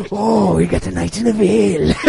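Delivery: hammed-up scheming character voice; Littlefinger. Host who loves doing Littlefinger, playful impression. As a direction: put on the schemer's voice for laughs. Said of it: "I love doing Littlefinger".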